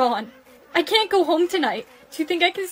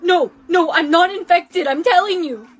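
desperate denial; 6 dB louder than usual. Acted. Pleading not infected.

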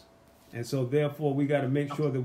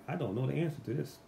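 mild worried mumble; 3 semitones lower, 5 dB quieter than usual. Retold or imitated. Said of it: "I'm like".

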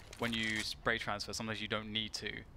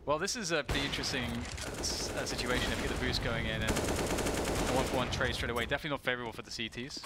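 play-by-play commentary; 3 dB louder than usual. Acted.

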